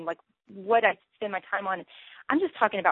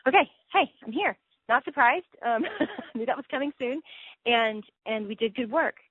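bright, higher, laughing a little; happy and unsurprised at heaven's gate; cheerful arrival; 4 semitones higher than usual. Pretend. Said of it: "There's a sense of".

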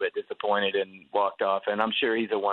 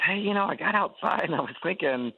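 eager fan; 4 semitones higher than usual. Retold or imitated. Fan pushing to join table.

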